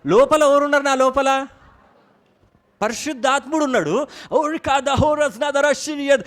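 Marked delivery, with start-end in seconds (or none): 4.3-6.2 calling out in tongues with force; loud tongues. Shown as a demonstration. Preacher shows the church how tongues sound, loudly. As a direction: cry the tongue syllables out boldly. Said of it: "అని నేను అంటా ఉంటే".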